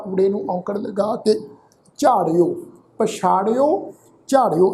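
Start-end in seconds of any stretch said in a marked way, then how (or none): 2.0-4.7 ਝਾੜਿਓ and ਪਛਾੜਿਓ said as separate model words; long ਾ, then ੜਿਓ in ਝਾੜਿਓ and ਪਛਾੜਿਓ; pronunciation demo. Shown as a demonstration. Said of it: "ਇਸ ਢੰਗ ਦੇ ਨਾਲ ਪਾਠ ਉਚਾਰਨ ਕਰਾਂਗੇ".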